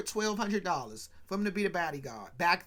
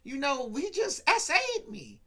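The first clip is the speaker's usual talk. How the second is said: much higher, mock-innocent woman's voice; scheming Geraldine; 6 semitones higher, 3 dB louder, slower than usual. Geraldine plotting against Jim Brown, high mock voice. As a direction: say it like a sly accusation, lightly voiced. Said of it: "she's like".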